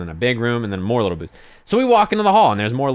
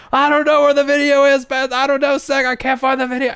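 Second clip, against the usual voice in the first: very high frantic mock yell; yelling back; 5 dB louder than usual. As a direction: yell back helplessly at the top of your range. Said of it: "I hear Spencer yelling back".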